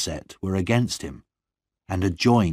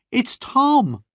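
high, pleading sister's cry near tears; tearful cry; 3 dB louder than usual. A narrator's reading. Sister begging her brother, crying high and desperate. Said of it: "Annie cried".

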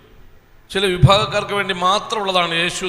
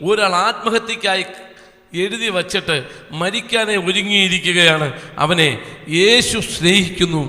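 quoting the pastor; 3 semitones higher, slower than usual. Retold or imitated. Pastor preaching his testimony to the small meeting, slow and emphatic. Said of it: "pastor പറയുകയാണ്".

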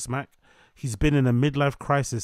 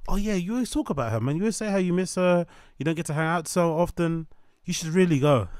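mock urging friend; 5 semitones higher than usual.

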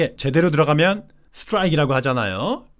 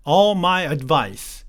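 very slow reading; 2 semitones higher, much slower than usual. Shown as a demonstration. Teacher reads the phrase very slowly.

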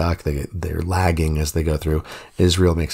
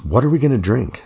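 mock grumbling; 7 semitones higher than usual. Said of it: "The people grumbled to Moses".

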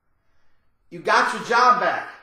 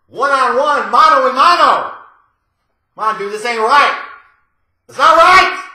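rising, louder protest; mock indignant protest; 6 dB louder than usual. Protesting to the cat-napper, mock indignant and loud. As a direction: demand a fair fight, hammed-up.

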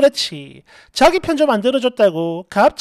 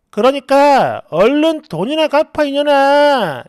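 slow, forceful demand; acted angry demand; 4 dB louder, slower than usual. Friend suddenly demands her money back, angry. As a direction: order her crossly, drawing out the words. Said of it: "이러더니 갑자기".

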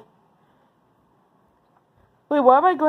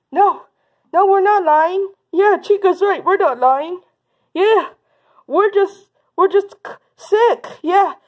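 higher-pitched, halting denials; defensive bully kids; 5 semitones higher than usual. Pretend. Bullies to principal about lying, defensive denial. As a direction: play caught kids faking an excuse.

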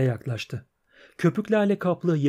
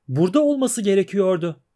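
lightly voiced mermaid; 4 semitones higher than usual.

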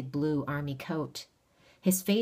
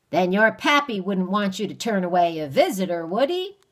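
wheedling stranger; 4 semitones higher, 8 dB louder than usual. Acted. Stranger voice held.

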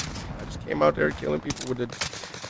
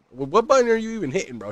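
exasperated disbelief; 9 semitones higher, 4 dB louder than usual. Retold or imitated. Retold exasperation at nephew.

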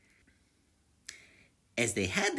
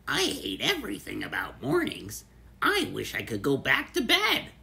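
a touch of grumpiness, louder at the end; grumpy lizard; 4 dB louder than usual. Acted. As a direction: grumble about mornings, building up. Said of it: "Lizard replied angrily".

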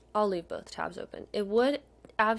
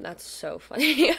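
higher, louder, breaking into laughter; slow down and laugh through the words; amused laughing; 5 semitones higher, 5 dB louder than usual. Real, not acted. Collector amused by a lookalike, laughing.

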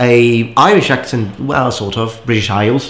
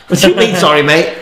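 put-on British accent; 5 semitones higher, 4 dB louder than usual. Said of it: "they always have a British accent".

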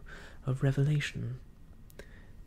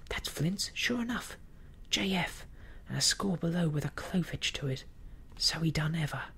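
high, lively mutineer voice; excited pirate; 4 semitones higher than usual. A narrator's reading. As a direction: pore over the map as a pirate. Pirates examining the chart.

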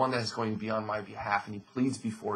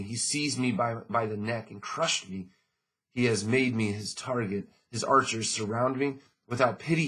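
scripture reading. Acted. Pastor reading Job aloud to the congregation, ringing. Reads Job's lament.

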